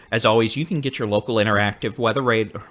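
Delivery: rushed and stumbling over words; hurried, tripping over the words. Real, not acted. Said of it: "Let me try that again".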